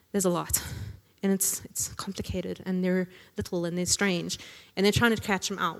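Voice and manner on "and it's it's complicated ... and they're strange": a breathy whisper; whispered aside. Real, not acted. Preacher whispering an aside to the congregation about Leviticus. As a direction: lean in and whisper it.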